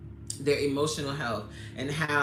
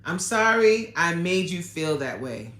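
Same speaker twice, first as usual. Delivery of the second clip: sincere apology; 5 dB louder than usual. Shown as a demonstration. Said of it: "All you gotta say, simple".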